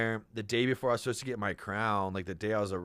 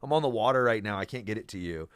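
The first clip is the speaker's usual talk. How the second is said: retold heated yell; 3 semitones higher, 5 dB louder, faster than usual. Telling the headhunter off, in a loud, raised voice. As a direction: half-shout the facts at him.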